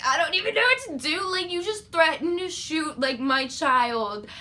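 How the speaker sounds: rattled outrage spilling out; upset disbelief. Retold or imitated. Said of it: "and I was like".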